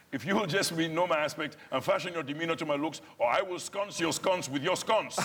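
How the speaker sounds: put-on Nigerian-accented verse botched into sconce your sconce, laughing; retelling an onstage flub with laughter; mangled line. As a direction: reenact fluffing the line, giggling. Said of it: "the other night I did say".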